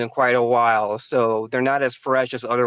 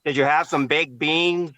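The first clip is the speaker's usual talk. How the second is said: bad Boston accent; 2 semitones higher than usual. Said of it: "that's a horrible fucking Boston accent".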